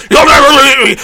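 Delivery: yelled, high and loud; boomer villain shout. Pretend. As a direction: scream it at the enemy. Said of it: "did you like my boomer impression".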